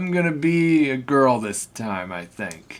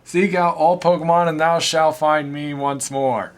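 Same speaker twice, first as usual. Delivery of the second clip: booming echoing villain monologue. Acted. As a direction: proclaim like an ancient god. Arceus final line.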